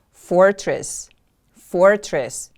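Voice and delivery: "Fortress" with FOR stressed, falling tone; stress on first syllable. Shown as a demonstration. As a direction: model "Fortress" for repeating, first syllable strong. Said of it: "The stress is on the first syllable".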